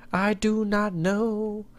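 slow unvoiced whisper; slow hushed whisper of not knowing. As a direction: breathe it out slowly, no voice. Whispered shrug.

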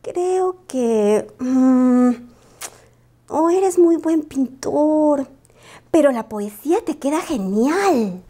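lento, con rodeos y dudas; titubeo incómodo. Acted. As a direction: busca las palabras para no herirle. Lupita evita criticar. (Lupita le suaviza la crítica con dudas)

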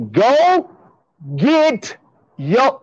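emphatic order. Real, not acted. Emphatic spelled-out order to viewers.

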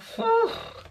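high puff of breath, acting too hot; overheated puff. Vlogger acting out getting hot at the gym, overheated puff. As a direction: blow out as if overheating. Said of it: "then you get a bit hot".

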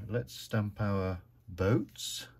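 ordinary talk

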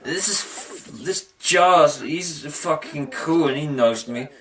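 slow, halting mock-angry Owl; pissed-off Owl. Reviewer voicing Owl pissed at Pooh, mock grumbling. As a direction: grumble slowly like an annoyed cartoon owl. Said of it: "Owl gets pissed off for some reason".

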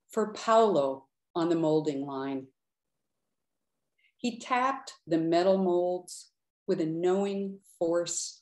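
measured, unhurried poetry reading; poem reading. Acted. Poet reading her poem for Paolo to an audience, measured. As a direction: linger on the images with pauses.

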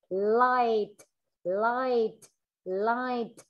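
LIGHT with a small, distinct released T; light but clear ending. Shown as a demonstration. Teacher models endings for class, LIGHT with released T. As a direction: let the final T of LIGHT click out. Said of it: "Đấy, bật nó rất".

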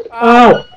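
sharp yelp of pain; real ow from a stubbed toe. Real, not acted. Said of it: "I just stubbed my toe!".

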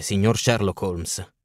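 slow, low-voiced stranger's greeting; passer-by voice. Young stranger greeting Holmes at his door, slow and low. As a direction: drawl it out like a passing young man.

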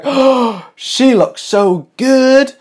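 high, drawn-out gushing; impressed bystander, slow and high; admiring onlooker. Retold or imitated. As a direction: swoon over her look. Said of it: "They're gonna be like".

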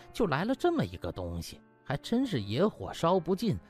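plain reading voice

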